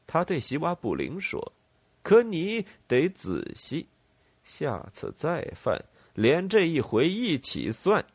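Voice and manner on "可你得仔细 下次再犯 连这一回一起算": stern warning. Acted. Rebel chief warns a kneeling man.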